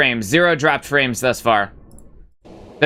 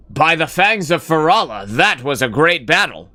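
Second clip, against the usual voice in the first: zombie voice; 2 semitones higher than usual. Retold or imitated. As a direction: ham up a game zombie's battle cry. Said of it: "in his zombie voice".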